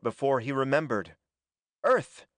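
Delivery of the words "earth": high, louder burst of recognition; slightly hysterical exclamation. A narrator's reading. Norman recognizes Earth in the sky, slightly hysterical exclamation. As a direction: exclaim it abruptly, pitched well up. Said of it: "He laughed a little hysterically".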